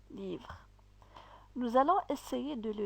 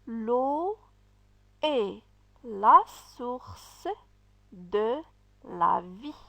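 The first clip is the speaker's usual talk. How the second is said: model sentence reading; 4 dB louder, much slower than usual. Shown as a demonstration. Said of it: "nous allons lire une phrase".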